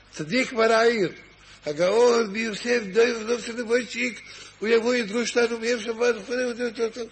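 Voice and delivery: high, loud, rolling herald praise; grand proclamation. Acted. The posters hail the young sage to the town, loud and high. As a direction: announce him like a town crier.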